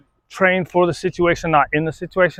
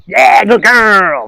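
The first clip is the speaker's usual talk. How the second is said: dog praise; 6 semitones higher, 8 dB louder, much slower than usual. Real, not acted. Praising his dog mid-walk.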